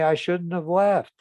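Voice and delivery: retold wife snapping with hurt and anger; hurt and angry. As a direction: let the hurt and anger push the pitch up. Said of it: "with some hurt and anger".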